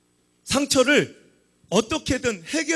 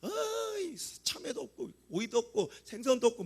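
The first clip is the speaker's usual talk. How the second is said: soft muttered whine; under-the-breath grumble; mock grumbling; 9 dB quieter than usual. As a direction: imitate congregants moaning over what's missing. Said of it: "성도들은 원망하고 불평하는 거야".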